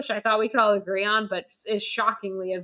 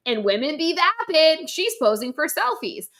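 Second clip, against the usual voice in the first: mocking; 6 semitones higher than usual. A critic repeating the film's stereotype in a mock tone. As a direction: throw the cliché back with scorn. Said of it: "mocking the film again".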